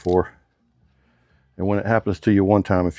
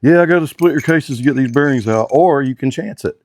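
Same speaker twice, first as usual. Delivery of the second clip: higher, louder acted-out mechanic; mechanic telling customer; 5 semitones higher, 4 dB louder than usual. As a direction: lay out the options to a customer, raised voice. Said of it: "tell the customer".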